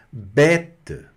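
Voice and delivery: Bête said with a wide open è, final e faint; Bête with an open French è. Shown as a demonstration. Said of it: "pronúncia bem aberta".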